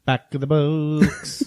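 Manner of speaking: drawn-out, slow catchphrase; segment catchphrase. Pretend. Co-host calling out the host's regular segment, slow mock announcer. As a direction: stretch out "box" like a jingle tag.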